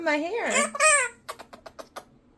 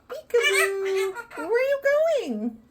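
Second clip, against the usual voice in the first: laughing. Real, not acted. Playful peekaboo, laughing.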